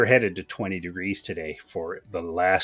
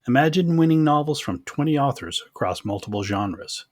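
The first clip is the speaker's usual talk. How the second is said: upbeat, raised announcer voice for a podcast promo; bright ad read, a bit higher and louder; 5 semitones higher, 5 dB louder than usual. Acted. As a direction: sell it like a radio spot. Host reads podcast promo.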